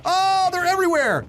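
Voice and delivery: high panicked cry; excited yelp. Real, not acted. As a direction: shout it high in alarm. Panicked gameplay.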